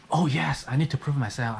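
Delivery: mock-eager agreement, starting high; hammed-up sudden resolve; sarcastic. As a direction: pretend to be convinced, with obvious irony. Sarcastically voices giving in to provocation.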